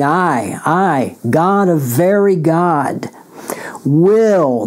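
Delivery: whispered "God of very God", slow; hushed declaration. Acted. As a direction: drop to an awed whisper mid-quote. Preacher voices Jesus' declaration.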